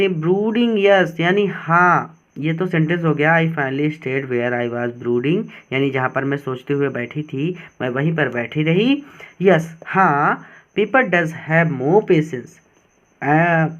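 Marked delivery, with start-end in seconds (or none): 3.4-5.4 slow, careful reading of the sentence; teacher reading the full sentence slowly. Shown as a demonstration. Slow reading of English text. 10.8-12.5 slow, deliberate dictation pace; teacher reading the quote slowly; slow reading aloud. Shown as a demonstration. Slow reading of English text.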